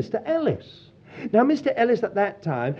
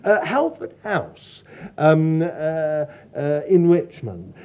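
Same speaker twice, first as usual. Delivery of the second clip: lightly put-on posh phone voice; terribly posh. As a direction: imitate a posh English lady recalling details. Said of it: "a terribly posh voice said".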